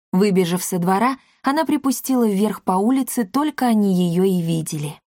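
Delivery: plain reading voice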